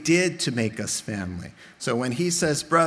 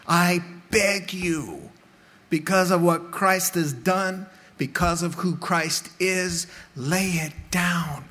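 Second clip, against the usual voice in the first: earnest plea; 3 semitones higher, slower than usual. Acted. Pleading appeal in sermon.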